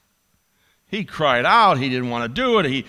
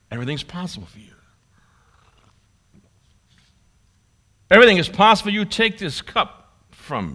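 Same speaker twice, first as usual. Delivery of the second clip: anguished plea; 3 semitones higher, 6 dB louder than usual. Acted. Jesus pleading to the Father.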